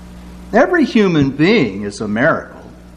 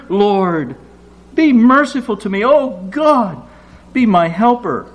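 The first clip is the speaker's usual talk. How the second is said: desperate plea; 5 semitones higher than usual. Acted. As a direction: cry out to be heard. Psalmist's desperate plea to God.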